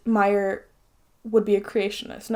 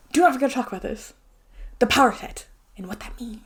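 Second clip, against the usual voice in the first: whisper. Real, not acted. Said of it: "I'm getting loud".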